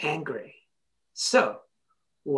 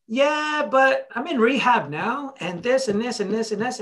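higher-pitched mock objection; protesting excuses; 4 semitones higher than usual. Rehab kid objecting to the speaker's advice, mock protesting. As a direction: imitate a kid pushing back with excuses.

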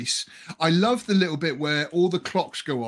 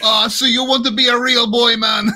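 loud, high put-on fairy voice; hammed-up accent for a joke fairy; imagined Blue Fairy; 7 semitones higher, 9 dB louder than usual. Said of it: "I was expecting her to sort of say".

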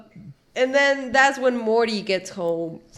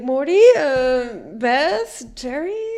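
calling out for family; 3 semitones higher, slower than usual. Retold or imitated. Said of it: "He's like".

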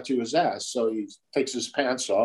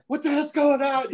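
mock astonishment; 14 semitones higher than usual. Onlookers' astonished reaction voiced.

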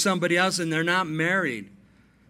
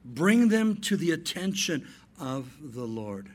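solemn rendering; 3 semitones lower, slower than usual. Shown as a demonstration. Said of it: "The Greek says".

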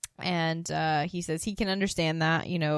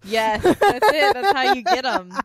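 mock sly; 6 semitones higher, 7 dB louder than usual. Joking about the flirting trap.

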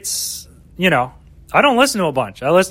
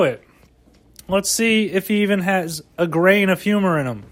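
lightly raised, snide heckler voice; mocking audience voice; 4 semitones higher than usual. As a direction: voice the doubtful crowd sizing up the new guy. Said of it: "and they're all".

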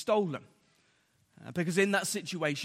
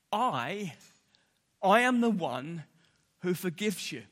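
I, I leaned on hard and louder; stress on I; 4 dB louder than usual. Acted. Preacher voicing God, stressing the word I. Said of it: "you notice the emphasis on the I".

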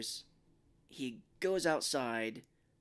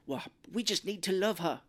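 higher, lightly voiced sincere dad; earnest dad; 6 semitones higher, 3 dB louder than usual. Imitating British dad.

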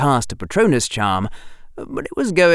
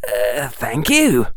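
sincerely; slower than usual. Acted. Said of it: "Harry said sincerely".

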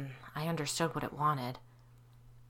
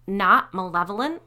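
hissed; 9 dB louder than usual. Acted. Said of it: "Sally hissed".

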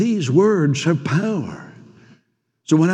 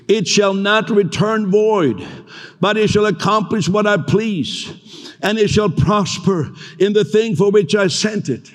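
proclaiming scripture. Acted. Preacher quoting God's promise to the church, solemn. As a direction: let each line land with authority.

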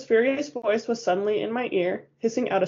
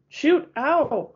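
sharp higher cry of pain, a bit louder; yelp of protest; 7 semitones higher, 4 dB louder than usual. A narrator's reading. Bella tangled with Jacob, falling: sharp yelp. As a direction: yelp as you hit the floor. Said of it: "I protested".

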